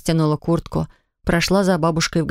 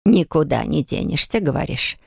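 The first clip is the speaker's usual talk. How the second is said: thoughtful; 2 semitones lower than usual. Acted. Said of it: "сказала задумчивым голосом".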